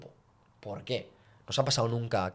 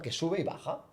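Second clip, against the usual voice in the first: rollercoaster tune; 6 semitones higher, 3 dB quieter than usual. Shown as a demonstration. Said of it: "forma de montaña rusa".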